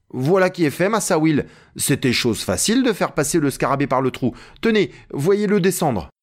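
high, lightly voiced triumphant report; Jupiter, satisfied climber. Narrator voices Jupiter reporting success. (Jupiter, annonce satisfaite, voix plus aiguë)

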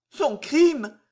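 high, stunned stammer; stammered disbelief. Acted. Jeanne, stunned by the constable's charge: high stammered disbelief. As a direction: stammer it out, lost. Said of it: "balbutia l'infortuné".

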